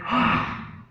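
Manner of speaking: high "Ah!" cried out; storyteller's cry for a fallen boy; child's cry. Acted. Little boy falls down on the mountaintop, crying out. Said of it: "falls down and he cries".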